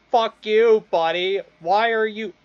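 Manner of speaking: loud, high comic outrage; mock angry protest. Dog talking back to its owner, hammed-up outrage. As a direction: protest loudly as an offended dog.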